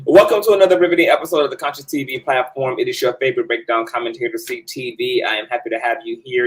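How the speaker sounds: quick, punchy host intro; fast show intro. Acted. Host welcoming viewers to the episode, fast and punchy.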